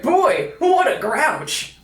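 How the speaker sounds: mock breezy Al. Host imitating Al shrugging off the killings, lightly voiced and slow. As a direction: toss it off like nothing happened. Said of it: "Al's like".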